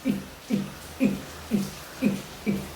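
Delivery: soft clipped इक ending in a throat catch; इक drilled short and quiet; throaty q sound. Shown as a demonstration. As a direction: repeat इक with a voiceless q stop. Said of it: "का की आवाज आ रही है".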